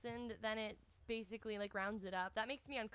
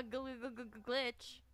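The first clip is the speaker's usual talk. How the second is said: "gl-, gl-" repeated before landing "glitch"; glitching stutter; 3 dB quieter, slower than usual. Shown as a demonstration. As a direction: stutter it like a freezing stream. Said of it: "I don't want things to".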